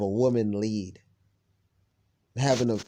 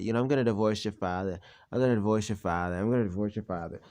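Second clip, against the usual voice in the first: quiet mock of mother's threat; 3 semitones lower, 5 dB quieter, faster than usual. Son mimics mother's divorce threat. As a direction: repeat her threat, flat and quiet. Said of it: "She's always used to say that".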